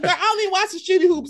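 high, loud, fast, laughing through it; laughing mock retort. Mocking a sports fan, laughing quick put-down. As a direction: toss it off quick while laughing. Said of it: "It's like".

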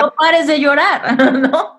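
said through laughter; joking advice with a laugh. Real, not acted. Jokes about advice to cry. (riendo al decir que no pare de llorar)

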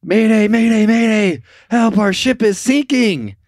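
high, loud mock mayday; radio distress call. Sinking crew radioing the coast guard, urgent distress call. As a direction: cry out for rescue, drawing out the last words. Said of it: "over the radio goes".

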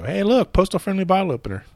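high-pitched playful boast; mock showing off. Man twirling a bottle opener, mock excitement. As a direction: pitch way up, hammed-up delight.

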